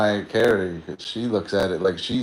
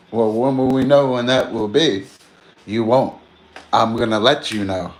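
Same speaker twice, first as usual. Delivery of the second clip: louder question and curt reply; mild acted movie dialogue; movie quote; 4 dB louder than usual. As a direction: replay the Road House exchange. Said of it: "Like that movie Roadhouse".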